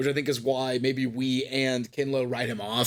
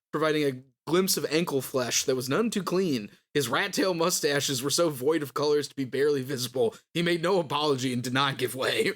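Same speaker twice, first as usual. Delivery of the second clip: story narration. A narrator's reading. Reads a passage aloud.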